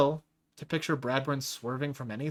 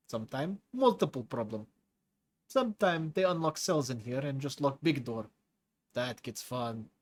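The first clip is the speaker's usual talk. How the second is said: lightly voiced hulking prisoner with a foreign accent; a menacing brute enjoying scaring the new chief; Tigra's heavy accent.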